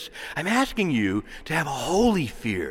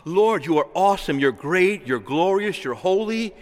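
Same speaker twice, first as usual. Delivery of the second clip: awed prayer; 3 semitones higher than usual. Shown as a demonstration. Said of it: "To describe it would be".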